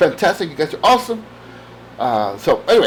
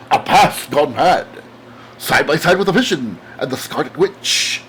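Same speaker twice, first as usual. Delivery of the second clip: dramatic comic narrator; 2 semitones lower than usual. Acted. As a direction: draw it out like a comic-book announcer. Dramatic reading of comic copy.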